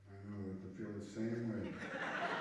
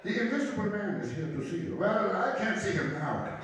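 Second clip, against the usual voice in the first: loud, high, hammed-up German accent; 9 semitones higher, 6 dB louder than usual. Comic sketch between officer and leader, loud mock German accent. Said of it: "I like to do that German accent".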